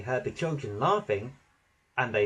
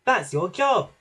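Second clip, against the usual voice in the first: high, loud bossy retort; loud peep; 5 semitones higher, 5 dB louder than usual. A narrator's reading. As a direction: peep it out loudly. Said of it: "peeped Percy loudly".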